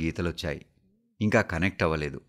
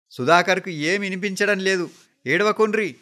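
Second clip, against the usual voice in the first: high, raised voice over the crying; urgent, high appeal to a crowd; pacifying the mourners; 10 semitones higher, 4 dB louder than usual. A narrator's reading. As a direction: call out to hush everyone. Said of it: "అని చిన్నబాపు అందర్నీ సముదాయిస్తున్నాడు".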